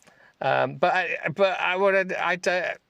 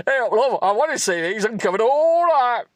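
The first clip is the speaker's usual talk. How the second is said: higher, louder cheesy romance-hero voice; hammed-up seductive lover; 9 semitones higher, 5 dB louder than usual. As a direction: ham up the smooth-talking lover. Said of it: "Sorry. (redoing line in voice)".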